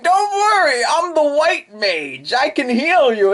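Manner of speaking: very high, loud chirpy voice; Akashi's voice. Acted. Akashi comforting Naka, very high chirp. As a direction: reassure her brightly. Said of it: "And Akashi's like".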